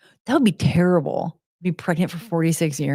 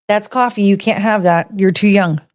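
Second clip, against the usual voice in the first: louder, firm telling-off; raised voice warning a dog off coffee; scolding the dog; 7 dB louder than usual. Real, not acted. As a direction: tell the puppy no, firmly.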